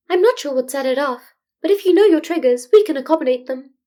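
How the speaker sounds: a careful, tactful principal; diplomatic Nezu. Acted. Nezu's voice held by narrator.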